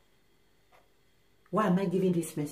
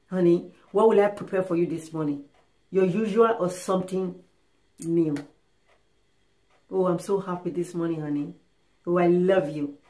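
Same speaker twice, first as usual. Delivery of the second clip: lower, affectionate wife voice; sweet talk; 4 semitones lower than usual. Acted. Happy wife talking to husband over breakfast plans, sweet. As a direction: dote on him, pitched down and tender. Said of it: "She'll be telling you sweet words".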